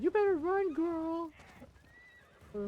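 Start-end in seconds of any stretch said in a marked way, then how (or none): 0.0-1.3 high, loud threatening guard; angry guard voice. Retold or imitated. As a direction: yell the guard's threat, hammed-up. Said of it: "He's like".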